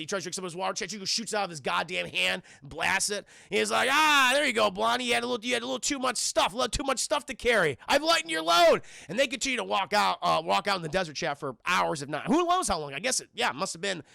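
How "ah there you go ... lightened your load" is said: mocking taunt. Tuco taunting thirsty Blondie.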